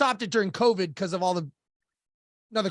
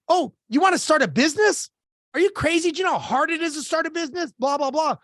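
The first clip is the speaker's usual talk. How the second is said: higher-pitched mock scolding; incredulous naysayer; 4 semitones higher than usual. Naysayers discourage a would-be business owner, incredulous mock scolding. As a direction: imitate a doubter talking someone out of it.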